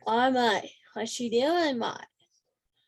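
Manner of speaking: a try at a New Zealand accent leaning Australian; practised, imperfect New Zealand accent; attempted New Zealand accent. Shown as a demonstration. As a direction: have a go at a Kiwi accent, a bit Aussie. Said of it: "working on my accent a little bit".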